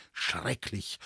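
a father groaning at the forester's prank. Acted. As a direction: moan the word in mock dismay. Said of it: "stöhnte mein Vater".

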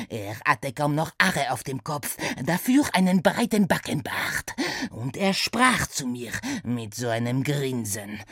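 erzählend, ein Hauch Akzent; leichter französischer Akzent. Acted. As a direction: den Traum ruhig schildern, leichter Akzent. Saint-Saëns voice. (leicht französisch gefärbt)

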